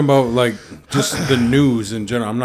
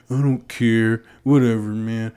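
lightly put-on slacker indifference; mock indifference. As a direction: shrug it off like a too-cool rock star. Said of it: "become cool to be like".

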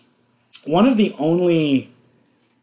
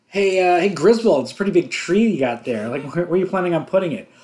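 loud, quick taunting comeback by the end; acted movie quote; 3 semitones higher, 5 dB louder, faster than usual. Neighbour and Griswold trading insults, mock taunting. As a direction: play the sparring neighbours, building louder.

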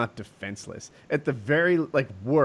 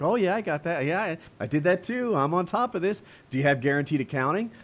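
put-on higher, breezy, overconfident young starlet; airy pop-star voice; 6 semitones higher than usual. Stern asks, a higher breezy pop star answers. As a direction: play the pop star who thinks she knows it all. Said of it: "she's like".

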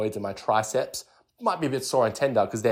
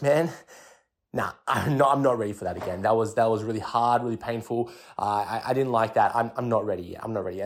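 reluctant. Pretend. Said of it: "looking at that weight and I'm like".

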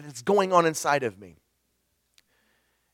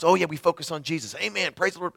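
mock churchy cliché; 3 semitones higher, faster than usual. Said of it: "easy to come up with these terms".

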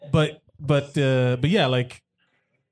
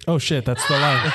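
real laughing outburst; laughing shout; 3 semitones lower than usual. Real, not acted. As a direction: blurt it out through laughter. Reacting to a movie line.

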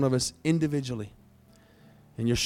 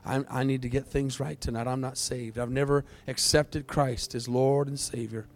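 softer, hushed prayer for others to repeat; modelled confession; 6 dB quieter than usual. Shown as a demonstration. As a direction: quietly give them the words to pray.

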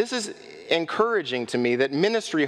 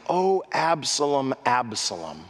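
mournful, falling lament for his son; a father's grief, lightly voiced; grieving cry; 5 semitones lower than usual. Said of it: "He's emotionally torn apart".

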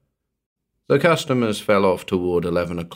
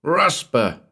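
raised-pitch call for help; loud yell; 7 semitones higher than usual. A narrator's reading. Trapped Walters to the manager, yelling up the tube. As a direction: yell up to someone far away. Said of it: "he yelled up the tube".

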